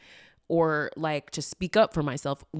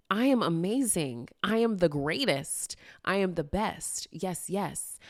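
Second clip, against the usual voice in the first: self-affirming chant with swooping emphasis; affirmations. Shown as a demonstration. Speaker saying affirmations to use their voice, self-affirming. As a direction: declare each line with relish, like a mantra. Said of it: "saying my affirmations".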